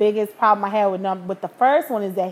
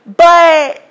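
laughing; 7 semitones higher, 11 dB louder, much slower than usual. Real, not acted. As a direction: talk through loud laughter. Laughing at her own story.

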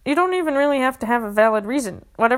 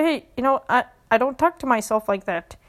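steady, firm answer to yourself; firm self-correction. Shown as a demonstration. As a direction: stand up for yourself, calmly. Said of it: "Correct it".

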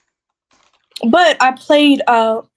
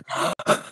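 imitated gasp; 9 dB quieter than usual. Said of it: "ear goes".

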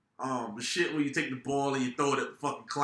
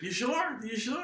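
mock kid pleading, pitched up; imitating a pushy little kid, higher; kid's voice, higher; 9 semitones higher than usual. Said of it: "And he's like".

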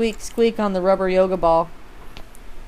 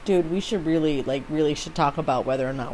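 whispering; 5 semitones lower, 7 dB quieter than usual. Real, not acted. Drops to whisper.

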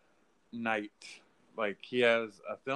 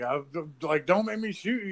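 mock cop threat; 5 semitones higher than usual. Retelling cop's threat.

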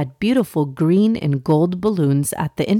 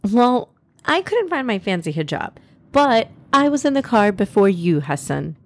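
younger sister; 3 semitones higher than usual. Acted. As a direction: answer a brother back, with a touch of teasing. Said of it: "Alina, Noor's younger sister, snickered".

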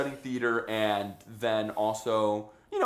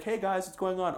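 put-on white boy voice; 7 semitones higher than usual. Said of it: "you sound like such a fucking white boy".

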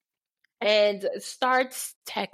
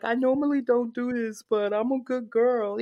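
mock coy girl; 2 semitones higher than usual. Mocking men who play shy, coy good-girl voice. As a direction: play it bashful and fake-innocent. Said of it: "covering their face like".

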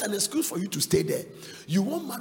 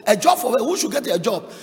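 no-nonsense scoff; 9 dB louder than usual. Retold or imitated. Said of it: "those Nigerian pastors, they are no nonsense people".

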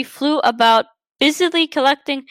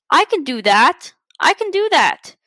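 excited chirp. Acted. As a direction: bubble over with excitement. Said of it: "flapped her wings excitedly".

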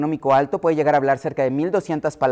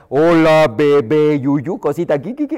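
put-on baby talk; 4 dB louder, slower than usual. Parent talking to a baby, mock cooing baby talk. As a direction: coo at a baby like a doting parent. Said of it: "Si al niño le hablas".

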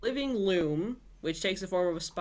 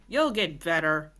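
scoffing; 4 dB louder than usual. A narrator's reading. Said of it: "scoffed Nola".

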